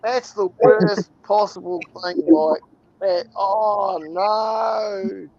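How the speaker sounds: high, loud mock horror at being called Australian; mock outrage. Kiwi told he sounds Australian, mock outraged shout. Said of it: "don't ever confuse Australians and New Zealanders".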